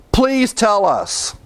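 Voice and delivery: high, slow begging plea; pleading sailors. Retold or imitated. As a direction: beg him, drawn out and high.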